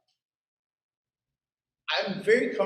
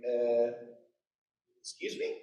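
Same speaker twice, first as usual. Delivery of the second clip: indignant; 3 semitones lower, 4 dB quieter than usual. Pretend. Preacher pretending offence at being called child, mock indignant. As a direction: play it affronted, pitch jumping up.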